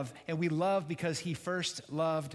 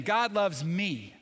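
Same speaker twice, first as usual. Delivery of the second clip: said again louder; 5 dB louder, slower than usual. Shown as a demonstration. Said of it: "Say it again".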